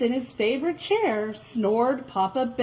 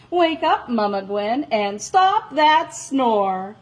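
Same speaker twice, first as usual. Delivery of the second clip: calling out. Acted. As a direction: call her awake. Calling to Mama Gwen.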